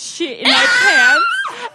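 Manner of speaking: high, breaking with laughter; laughing. Real, not acted. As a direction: read it cracking up. Reading while cracking up.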